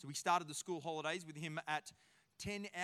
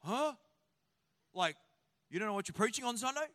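incredulous; 2 semitones higher, 5 dB louder, faster than usual. Retold or imitated. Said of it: "how many people are like".

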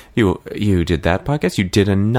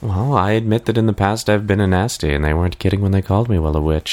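Ursula number. Acted. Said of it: "then perform the number right away".

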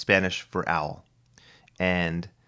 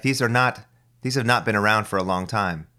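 normal talking voice

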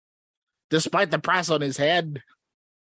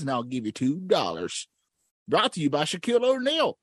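put-on old prospector.

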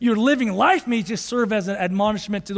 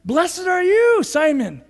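Jesus blessing; 7 semitones higher, slower than usual. Retold or imitated. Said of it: "Jesus says to him".

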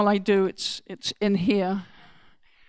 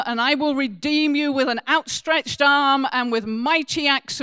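scripture reading; 3 semitones higher than usual. Acted. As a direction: proclaim God's words, then let them settle. Reads scripture aloud in church.

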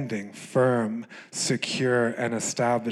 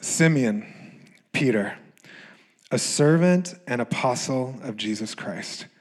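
measured, paused Bible reading; scripture reading. Acted. Reads scripture aloud.

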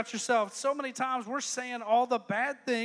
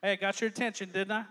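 chuckling aside; laughing; 5 semitones lower than usual. Real, not acted. Preacher laughing at his own joke to the crowd. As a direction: laugh through it.

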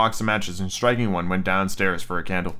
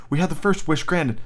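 higher, feverish insistence; 6 semitones higher than usual. A narrator's reading. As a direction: press the point feverishly. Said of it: "said the old woman feverishly".

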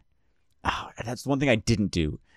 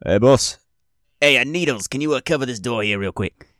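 lightly voiced doorman, pitched up; weasel doorman calling; 4 semitones higher than usual. Doorman asking Needles to cover the door, calling lightly. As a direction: call over for a favor as a weasel doorman. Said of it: "you hear a guy go".

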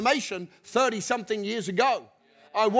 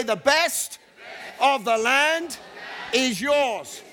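shouted refrain; slower than usual. Shown as a demonstration. Preacher leading the crowd, shouting the promise. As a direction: belt the line out to the crowd. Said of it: "We're gonna keep saying this till we get it".

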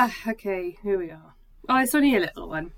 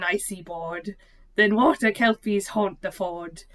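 put-on slow recital in a light Liverpool accent; Scouse accent; 2 semitones lower, 3 dB louder, slower than usual. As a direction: read the verse aloud as a Scouser would. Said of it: "Can I do it in a Scouse accent?".

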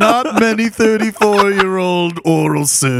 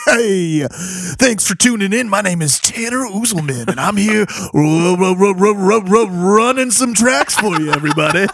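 higher radio host patter; 4 semitones higher than usual. Acted. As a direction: play a cheesy radio DJ. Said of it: "radio D J voice".

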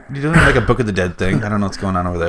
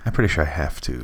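whispering; 6 semitones lower, 7 dB quieter, faster than usual. Pretend. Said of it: "I'm the only one not whispering".

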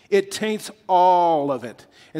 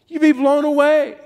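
amazed exclamation; 9 semitones higher, 7 dB louder than usual. Real, not acted. Preacher telling the congregation how stunned they'd be, louder. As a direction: burst out louder and higher.

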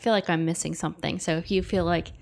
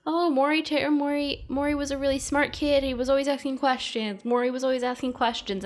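gushing interviewee; 6 semitones higher than usual. Retold or imitated. People gushing in the documentary.

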